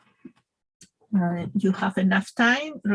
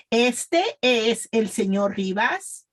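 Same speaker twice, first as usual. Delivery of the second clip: slow, evenly spaced model sentence; pronunciation practice; slower than usual. Shown as a demonstration. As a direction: say it slowly for learners to repeat. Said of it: "practice with me".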